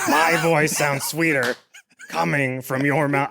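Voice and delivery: sounds sweeter coming, with coming leaned on slowly; slow, drawn-out line with a stress on coming; emphasis on coming. Real, not acted. Improv husband repeats the suggested line, leaning on coming. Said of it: "I put emphasis on coming like that".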